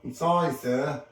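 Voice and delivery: "sir" set apart pointedly; stress on sir. A narrator's reading. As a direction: lean on "sir". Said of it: "emphasizing the last word".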